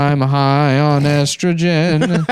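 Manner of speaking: high, slow, laughing through the voice; giggling crazed old man. Acted.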